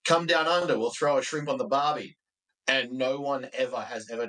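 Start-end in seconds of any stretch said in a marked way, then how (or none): 0.1-2.2 higher-pitched mock ad slogan; imitated tourism ad. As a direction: pitch it like an old tourism advert. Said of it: "and basically was like".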